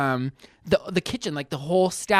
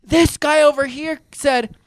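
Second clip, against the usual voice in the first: higher, slow tattling voice; imitated complaining old man; 6 semitones higher, slower than usual. Old man to the wait staff, mock complaining. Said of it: "he's going".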